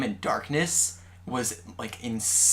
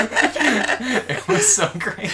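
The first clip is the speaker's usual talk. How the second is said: high, loud and drawn out with laughter; helpless laughter carrying into the words; real laughing; 10 semitones higher, 6 dB louder, much slower than usual. Real, not acted. Fan finishing a favorite funny story, laughing hard. Cracking up at retold episode.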